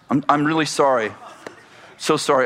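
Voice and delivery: mild, retold kind apology. Preacher recalls apologizing to his angry neighbor, mildly kind. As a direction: apologize gently, as if recounting it. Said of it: "I was very kind to her".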